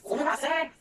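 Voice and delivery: a customer calling for a clerk. Retold or imitated. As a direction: hail the staff from the counter. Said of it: "I hear that".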